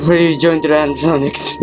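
high-pitched, distressed wailing; anguished frustration. Real, not acted. Player so close to six AM loses, high anguished complaint. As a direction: lament a narrow loss in a high voice. Killed just short of winning.

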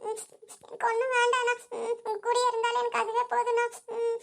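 slow tearful refusal broken by sobs; crying. Acted. Sister wants only her brother's company, crying. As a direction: refuse gently through sobs. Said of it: "அழுகாத சாமி".

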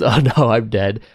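calmly underplayed reaction to dying; mock-unbothered, no alarm at all. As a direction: take your own death in stride. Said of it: "so he just calmly goes".

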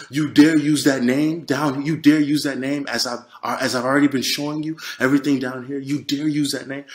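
measured retelling of a yelled threat; stern but restrained, stressing DARE; proper-sounding rebuke. Retold or imitated. The voice rebukes him for the name, retold too properly. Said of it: "saying it as if he said it that proper".

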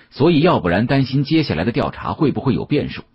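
usual speaking voice

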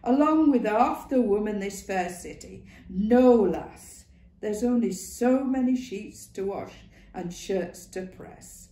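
lightly voiced old Northern woman; brisk, knowing old woman. A narrator's reading. Ma Duckworth voice.

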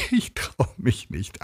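high, slow words through giggles; playful laughing reluctance; laughing reply. A narrator's reading. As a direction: giggle nervously while answering. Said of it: "antwortete sie lachend".

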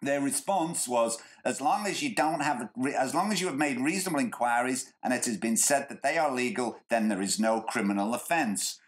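lazy stoner voice. Retold or imitated. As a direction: read it like a stoner. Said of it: "I'm giving him a stoner voice".

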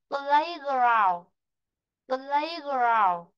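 "Playground" with PLAY stressed, falling after; stress on first word. Shown as a demonstration. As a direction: lean on "Play", let "ground" drop. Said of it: "chúng ta sẽ rơi vào chữ play".

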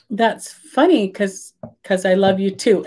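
slow, halting nervous reply; halting shy answer to "I love you". Retold or imitated. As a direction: say it shyly, stalling for time. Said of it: "'cause it's so nervous".

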